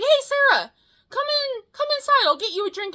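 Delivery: high, eager host voice; imitating Austin. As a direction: play the friend covering up, all smiles. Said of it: "He's like".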